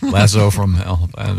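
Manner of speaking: tongue held while speaking; holding tongue with fingers. Shown as a demonstration. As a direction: say it with your tongue pinched. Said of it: "With your tongue".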